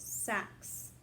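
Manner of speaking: sax whispered, only the breath, with a hissing ks at the end; whispered sax demo. Shown as a demonstration. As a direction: breathe out sax for the class to copy. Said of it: "it would be easier if we just kinda go like this".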